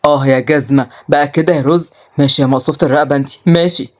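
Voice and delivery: mildly indignant, low; betrayed brother threatening. Acted. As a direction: grudge against a tattling sister.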